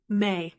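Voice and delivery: "may" as a French-style final syllable; isolated "may", as at the end of Chalamet; French-sounding ending. Shown as a demonstration. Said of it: "ending with that French-sounding".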